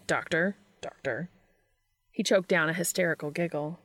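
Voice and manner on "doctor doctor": mock Doctor Sexy greeting. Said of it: "nodding all Doctor Sexy style".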